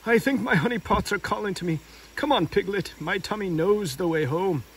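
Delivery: gentle Pooh voice; lightly voiced Pooh. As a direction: follow your tummy home.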